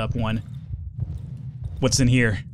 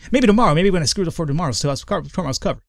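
twitchy slurred sniffing addict; 4 semitones higher than usual. Acted. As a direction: trail off like a spaced-out addict. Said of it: "I added a little bit more sin".

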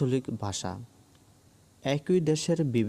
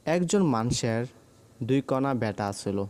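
Rangpur dialect. Shown as a demonstration. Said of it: "Rangpur অঞ্চলের আঞ্চলিক ভাষা হলো".

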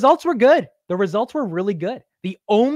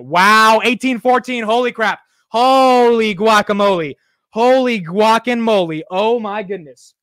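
loud, stretched holy guacamole; real astonishment at the price spike; excited disbelief; 2 semitones higher, 8 dB louder, slower than usual. Real, not acted. Stock price jumps live.

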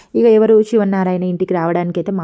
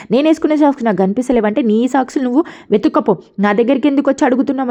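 irritated scolding; 4 semitones higher than usual. Retold or imitated. Deepa snaps at daughter Shourya.

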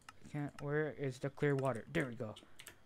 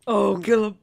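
squeaky cartoon voice; 6 semitones higher, 14 dB louder than usual. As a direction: stretch the ooh in a high squeak. Squealed catchphrase.

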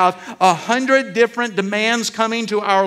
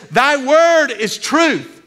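slow and higher, every word weighed; solemn scripture quote; 6 semitones higher, 4 dB louder, much slower than usual. Acted. Preacher voicing Jesus' answer, slow and solemn. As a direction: hand down the verse like a pronouncement.

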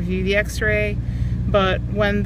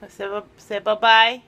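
coaxing; 2 semitones higher, 5 dB louder than usual. Real, not acted. Coaxing the dog goodbye.

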